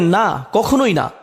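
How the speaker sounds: slow, weighty denial; emphatic no. Shown as a demonstration. Preacher stressing Allah's firm denial, slow and weighty. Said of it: "আল্লাহ বলেন".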